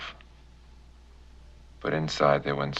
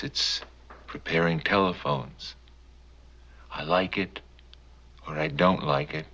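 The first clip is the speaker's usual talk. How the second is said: agitated telephone repairman; 4 semitones higher than usual. Acted. Phone repairman justifies his job to the man he spies on, increasingly agitated. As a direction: plead your case, climbing steadily in pitch and force. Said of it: "a man saying he was from the telephone company".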